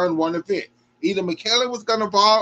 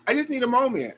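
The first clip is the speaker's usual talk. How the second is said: real tears welling up; about to cry; 6 semitones lower, 3 dB louder than usual. Real, not acted. Host moved by gymnast's story, near tears. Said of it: "Okay, I'm about to cry".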